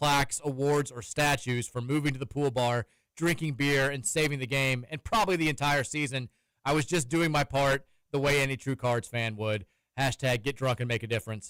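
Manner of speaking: normal talking voice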